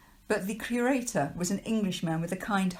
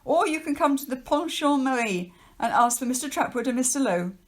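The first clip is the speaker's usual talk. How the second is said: higher, louder, fast stern official warning; 6 semitones higher, 5 dB louder than usual. Acted. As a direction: lecture the children like a pompous official. Trapwood gives his address.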